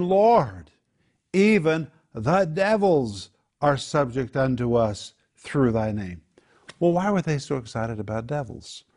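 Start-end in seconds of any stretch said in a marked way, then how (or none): 0.0-6.2 slow, emphatic exultant proclamation; ecstatic. Acted. Disciples report back to the Lord, ecstatic. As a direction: act out euphoric amazement, drawing it out. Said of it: "they were just ecstatic. They were euphoric".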